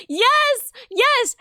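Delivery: gasp, then high excited yes; thrilled shout. Real, not acted. Excited at the idea.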